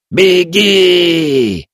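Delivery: high, loud cry; shouted. A narrator's reading. Old Kaeta cries out to the boy to run, loud cry. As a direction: cry out one last order. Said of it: "выкрикнул старик".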